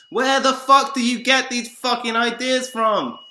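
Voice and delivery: high, full-force angry yelling; furious shout. Real, not acted. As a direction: bellow the denial, outraged. Furious denial of others' assumptions.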